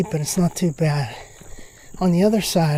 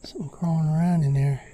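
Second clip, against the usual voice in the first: whispering. Real, not acted. Startled by noise in brush.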